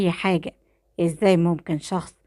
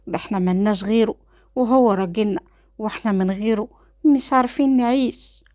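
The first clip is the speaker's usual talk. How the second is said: put-on a young girl's pleading question, pitched up; questioning little girl; 3 semitones higher than usual. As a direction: ask it like a small frightened child. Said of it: "وبتقول بتساؤل". (طفلة صغيرة بتسأل بتوسل)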